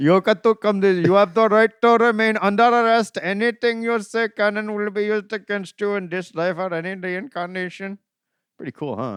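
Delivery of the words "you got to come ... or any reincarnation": put-on Indian accent, pitched up, held throughout. Joking about getting arrested in India, in an Indian accent voice. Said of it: "Indian voice".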